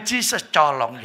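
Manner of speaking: "Jesus" in English, "colong" with ch sound; English pronunciation. Retold or imitated. Friend mispronouncing a prayer the English way: "Jesus colong". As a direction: mangle "Jesus tolong" into "Jesus colong". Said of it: "Yesus tolong nggak bisa".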